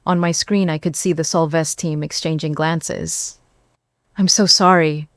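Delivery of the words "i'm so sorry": concerned. Acted. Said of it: "my voice full of concern".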